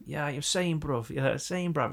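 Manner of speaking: put-on London slang, lightly done; lightly imitated London accent; fake London accent. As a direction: mimic a Mancunian faking London. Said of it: "the whole London accent as well".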